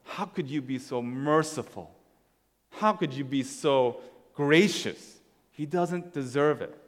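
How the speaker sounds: slow, incredulous reproach; judgmental older brother. Acted. Older brother judging the father, reproachful. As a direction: stretch out the disbelief. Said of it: "the judgment also to the father".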